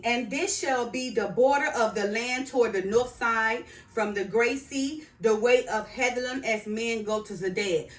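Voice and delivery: firm, emphatic verse recitation; scripture reading. Acted. Reading the north border to viewers, scripture reading. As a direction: read it out like a proclamation.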